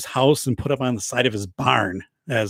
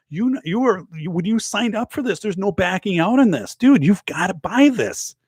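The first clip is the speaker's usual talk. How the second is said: higher, pushy fake-serious insistence; mock insistence; 5 semitones higher than usual. The speaker pranking Steve over the bid, high mock-serious insistence. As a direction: press him hard with a straight face.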